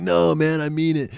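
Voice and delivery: high-pitched mock-drunk insistence; drunk buddy. Drunk friend protesting his love is real, high imitated insistence. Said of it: "so he's drunk".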